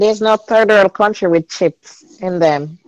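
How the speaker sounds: slowly repeated for clarity; slow, clear repeat. Real, not acted. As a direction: spell it out slowly for the listener. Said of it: "Say what again?".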